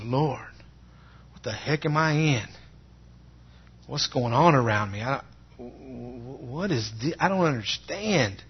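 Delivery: reenacted confused plea to God; stammer, then plead in rising bewilderment; pleading questions, climbing in pitch as confusion builds; bewildered prayer. Acting out frightened, confused prayer.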